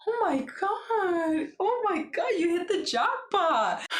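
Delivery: high, slow squealing gush; excited girls gushing. Retold or imitated. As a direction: squeal it like the girls watching, stretched out. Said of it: "all the girls are there like".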